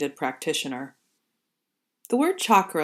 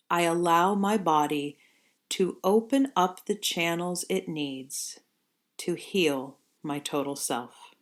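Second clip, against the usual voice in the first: intention offered slowly. Shown as a demonstration. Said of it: "The intention I will offer you is as follows".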